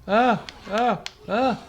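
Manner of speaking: high whiny anime wails; overacted anime dub. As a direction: squeal like a frightened anime girl. Joueur poursuivi, cris aigus. (doublage anime surjoué)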